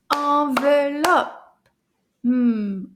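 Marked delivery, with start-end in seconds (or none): 0.1-1.7 "Enveloppe" split into slow, even, strong syllables. Shown as a demonstration. Teacher counting syllables of "Enveloppe" with class, slow separated beats. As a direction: clap out "Enveloppe" beat by beat, drawn out. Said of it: "Combien de syllabes?".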